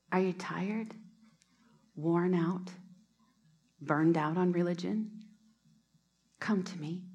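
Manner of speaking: tender Bible reading; gentle scripture reading. Acted. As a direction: read it like a personal invitation. Reads the Message scripture.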